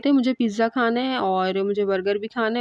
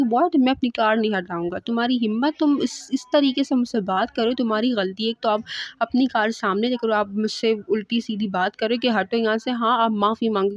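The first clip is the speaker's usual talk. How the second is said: indignant scolding. Retold or imitated. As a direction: tell him off for his cheek. Girl refuses, scolds the driver.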